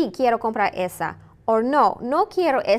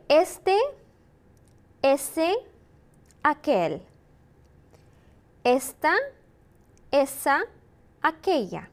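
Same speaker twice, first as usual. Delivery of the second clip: repeat-after-me drill. Shown as a demonstration.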